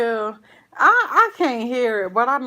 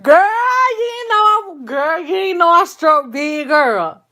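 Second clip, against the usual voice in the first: higher, louder, gushing over her big win; excited bragging; 9 semitones higher, 7 dB louder than usual. Real, not acted. Telling her viewers she struck big, thrilled and loud. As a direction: shout the win out with glee.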